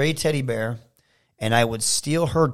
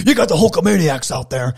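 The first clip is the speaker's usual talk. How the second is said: a touch louder, lightly done Hogan-style promo; Hulk Hogan promo; 3 semitones higher, 6 dB louder than usual. Retold or imitated. Kid doing Hogan addressing his fans, lightly voiced. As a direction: pump up the Hulkamaniacs, Hogan style. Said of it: "try and do all the voices".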